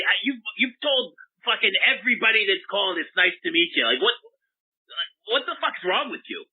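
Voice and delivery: mock-angry rant at the host; angry caller. Caller yelling at Doctor Larry over his greetings, mock angry.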